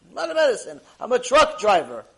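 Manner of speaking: high, loud emphatic denial; acted protest. Truck driver taken for a doctor, loudly protesting. Man protests mistaken referral.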